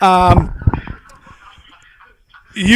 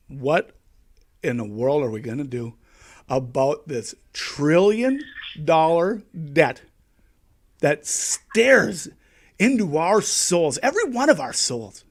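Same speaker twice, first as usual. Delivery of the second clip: dramatic hushed voice; 5 semitones lower, 5 dB quieter than usual. Acted. Mock dramatic inner monologue.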